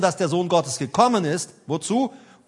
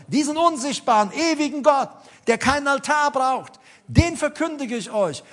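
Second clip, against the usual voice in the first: raised-pitch, emphatic proclamation; preaching as Paul; 4 semitones higher than usual. Retold or imitated. Paul announcing the unknown God to idol worshippers, raised preaching voice. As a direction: proclaim it as an apostle to unbelievers. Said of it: "als er predigt in der Apostelgeschichte".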